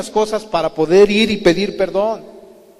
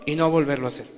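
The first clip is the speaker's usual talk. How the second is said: ordinary talk, nothing marked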